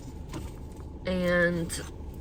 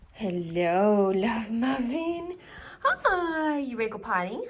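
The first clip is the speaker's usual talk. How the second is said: high, slow sing-song dog voice; talking to a dog; 4 semitones higher, slower than usual. Real, not acted. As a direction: coo at the dog an octave up. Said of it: "dog voice then suddenly magically gets an octave higher".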